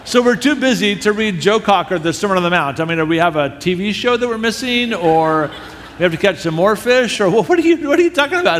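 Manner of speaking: exasperated, rising sarcastic rant; incredulous mock tirade. Speaker scolding his friend for refusing to read, mock exasperated.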